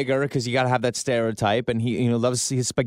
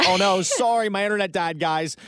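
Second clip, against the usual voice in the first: high, feigned dismay; hammed-up fake excuse to coworkers; mock apology; 7 semitones higher than usual. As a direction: pretend to be sorry, pitched well up. Faking an excuse to leave.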